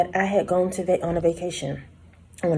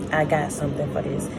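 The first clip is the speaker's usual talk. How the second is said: knowing confidence; 3 semitones lower than usual. Retold or imitated. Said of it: "my attitude had changed".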